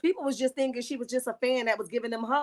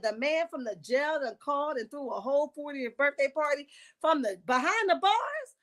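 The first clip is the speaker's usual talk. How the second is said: incredulous; 2 semitones higher than usual. Retold or imitated. Vlogger recounts a jail-thrown party, incredulous. Acting out her disbelief at the party.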